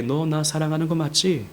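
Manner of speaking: soft question at an everyday pitch; mildly kind. Retold or imitated. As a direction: ask gently but matter-of-factly. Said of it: "이것도 좀 덜 친절하신 것 같아요".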